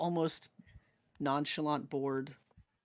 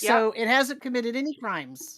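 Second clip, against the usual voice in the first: excited; 7 semitones higher, 8 dB louder than usual. Real, not acted. GM jokes about the creature.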